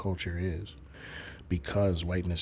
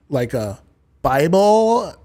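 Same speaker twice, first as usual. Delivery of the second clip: a single word in a put-on white American accent, much higher and louder; mock white accent; 8 semitones higher, 11 dB louder, much slower than usual. Streamer showing chat a mock white accent, loud and high. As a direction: bark the word in a hammed-up white-guy accent. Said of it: "That's a Caucasian accent".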